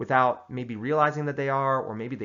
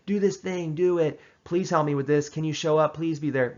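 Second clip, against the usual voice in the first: higher, pressing voice of someone nagging you to help; mock pushy asker, higher and insistent; pushy pleading; 4 semitones higher, 4 dB louder than usual. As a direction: nag and plead like a pushy friend. Imitating pushy people.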